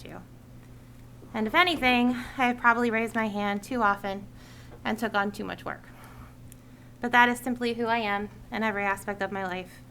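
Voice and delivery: measured read-out public statement; prepared speech. Real, not acted. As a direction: deliver a written address to the committee. Reads a prepared committee speech.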